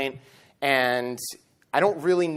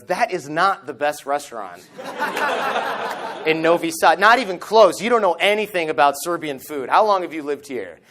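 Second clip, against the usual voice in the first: annoyed captor; 3 semitones higher than usual. Retold or imitated. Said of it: "he gets kind of annoyed".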